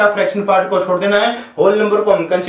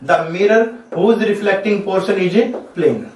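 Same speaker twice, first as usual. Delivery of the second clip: each word spaced out slowly for notes; slow dictation; much slower than usual. Shown as a demonstration. Teacher to students, defining a plane mirror, slow dictation. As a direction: dictate it so students can write.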